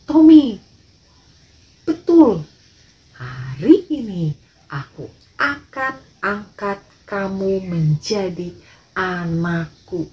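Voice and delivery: insist, then slow right down on the promise; a lightly voiced father, loud then deliberate; emphatic father.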